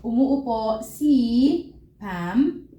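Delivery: "Umuupo si Pam" spoken slowly, long uu; slow model sentence. Shown as a demonstration. Teacher modelling the Filipino sentence for learners, slowly. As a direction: lay the sentence out word by word. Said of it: "we could say".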